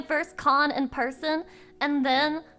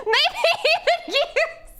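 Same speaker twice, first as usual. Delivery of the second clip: laughing through the words, slower; 7 dB louder, slower than usual. Real, not acted. Repeating her joke to chat, laughing. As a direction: say it while cracking up.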